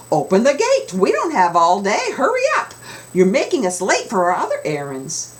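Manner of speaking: loud, high impatient yelling; angry drivers shouting. Acted. Drivers stuck at the dump gate, yelling impatiently. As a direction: bellow it at the locked gate.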